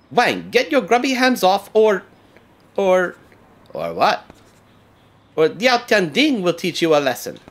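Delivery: defiant shout. Acted. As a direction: stand up to the bully, loud. Lin stands up to Wang.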